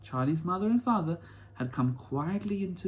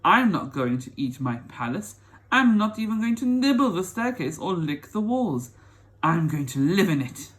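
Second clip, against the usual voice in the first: indignant prince; 3 semitones higher, 6 dB louder than usual. Acted. Prince refuses Wonka's warning.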